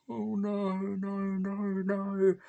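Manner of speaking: high, dismayed pleading no; a shocked viewer begging it not to happen; horrified no. Retold or imitated. Watching Dewey die in the cinema, horrified high pleading. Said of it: "I had this look on my face".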